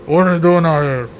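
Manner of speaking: muffled worker. Shown as a demonstration. Worker heard through a barrier by travellers, muffled. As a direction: question muffled as if through a covering. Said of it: "Yeah, like, through the ground".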